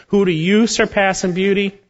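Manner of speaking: mocking high-pitched scorn for proud Egypt; sarcastic. Shown as a demonstration. Preacher mocking proud Egypt's beauty, sarcastic and high. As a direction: sneer the question up high, mockingly. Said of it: "That's a sarcastic statement".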